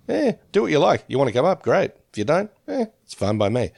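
casual, take-it-or-leave-it shrug in the voice; not caring. Retold or imitated. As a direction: lightly act out easygoing indifference. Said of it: "from not caring".

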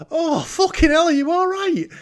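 high, loud mock alarm; imitating a shocked shout of concern; alarmed retold cry. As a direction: act out rushing over in a panic. Retold alarm running to injured Bond.

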